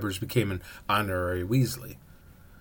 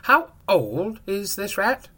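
high, slow, louder witch; a slow, higher shopkeeper witch; 10 semitones higher, 6 dB louder, slower than usual. A narrator's reading. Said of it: "said the witch".

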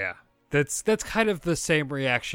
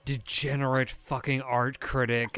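Abigail's rant; 4 semitones higher, 3 dB louder than usual. Acted. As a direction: drag out each insult with mock disdain. GM voices Abigail ranting.

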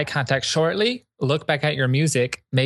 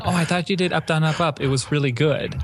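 mock sweet praise; 3 semitones higher than usual. Shown as a demonstration. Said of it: "then you just say it again".

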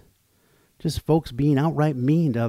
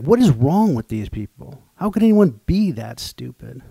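exasperated outburst; 5 dB louder than usual. Retold or imitated. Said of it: "it gets me saying things like".

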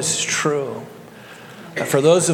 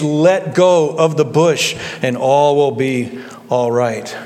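calm heavenly voice; slower than usual. Acted. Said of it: "it's a calm voice".

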